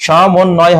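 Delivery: সমন্বয় in careful parts, "sho-mon-noy"; correct sh sound. Shown as a demonstration. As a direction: pronounce সমন্বয় with initial sh and doubled n. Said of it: "তালব্য স হবে".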